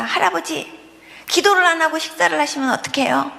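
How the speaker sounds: put-on a toddler scolding earnestly; child voice.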